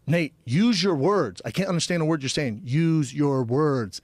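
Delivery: slow, patronizing, spelled out word by word; condescending. Retold or imitated. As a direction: talk down to him slowly, like to a child. Talking down to Nate.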